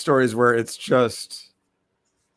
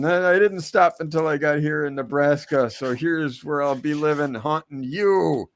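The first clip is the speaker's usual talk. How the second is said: pirate ghost; 5 semitones higher than usual. Retold or imitated. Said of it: "the pirate ... going".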